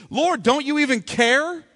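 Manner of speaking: a put-upon servant demanding, Lord, don't you even care; indignant plea. Retold or imitated. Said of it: "she's angry with Jesus".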